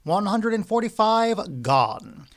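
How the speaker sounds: loud auctioneer call. A narrator's reading. Auctioneer calling bids.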